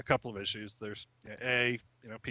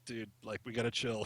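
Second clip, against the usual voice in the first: hushed, softer aside; imitated urgent whisper; 8 dB quieter than usual. Dad warning his kid under his breath, imitated whisper. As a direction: keep it down, half whispering to him. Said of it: "desperately trying to whisper it to Mal".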